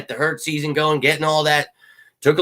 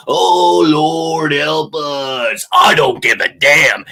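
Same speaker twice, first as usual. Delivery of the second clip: mock despair; 3 semitones higher, 6 dB louder, much slower than usual. Real, not acted. Mock despair then defiance.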